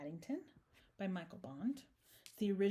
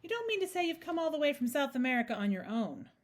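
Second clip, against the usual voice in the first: high, loud amazement; astonished exclamation; 6 semitones higher, 5 dB louder than usual. A narrator's reading. Mrs Brown hearing of the bear's journey, astonished. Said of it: "exclaimed Missus Brown".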